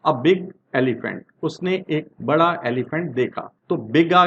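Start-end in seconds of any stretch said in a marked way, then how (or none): 0.1-1.2 slow example read. Shown as a demonstration. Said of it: "teacher reads example sentence slowly".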